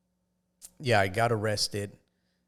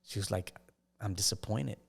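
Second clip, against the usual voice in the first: sad mom; 5 dB quieter than usual. Retold or imitated. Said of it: "she's just crying".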